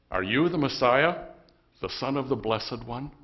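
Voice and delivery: lightly acted interrogation, pressing on YOU. High priest confronts Jesus to his face.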